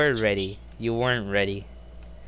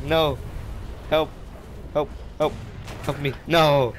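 frantic yelps; panicked cries for help; 2 semitones higher than usual. Real, not acted. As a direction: cry out as you're overrun. Being killed in the game.

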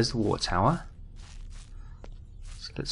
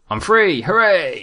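loud, high cry of victory; triumphant cheer; 8 semitones higher, 8 dB louder, slower than usual. Real, not acted. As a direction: cheer as you break free. Celebrates getting unstuck in game.

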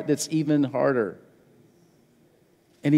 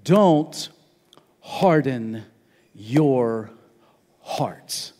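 each word slower and lower, last word whispered; fading to a whisper; 5 semitones lower, much slower than usual. Shown as a demonstration. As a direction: let it die away into a whisper. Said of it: "listen to these next four words very carefully".

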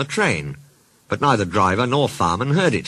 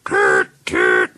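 low honking horn imitation; low, acted toot; wailing car horn; 10 semitones lower, 4 dB louder than usual. A narrator's reading. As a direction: honk it low like an old car's horn. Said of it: "she wailed".

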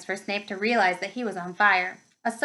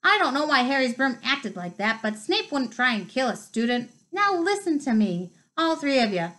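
stern Hagrid; 3 semitones higher than usual. Acted. Hagrid scolding the children.

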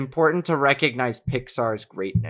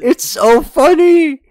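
laughing; 11 dB louder, much slower than usual. Real, not acted. Squealing laugh over funny short.

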